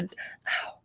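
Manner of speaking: short breathy ow of pain under the breath; a quick hushed yelp of pain; sudden ow. Real, not acted. Just bit her nail mid-sentence, hushed ow of pain. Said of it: "Just bit my nail back".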